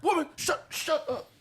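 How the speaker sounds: high, loud mock yell; impression of a singer. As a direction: bark it like an abusive husband. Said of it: "That's a singer moment".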